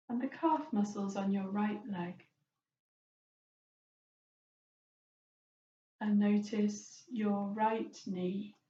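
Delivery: calm, unhurried meditation guidance; lightly hushed guide, easing into slowness; guided body scan. Acted. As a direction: gently lead them through noticing the body, leaving space.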